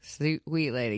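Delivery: slow, fond sympathy; tender pity. Real, not acted. Host to a too-forgiving guest, tender pity.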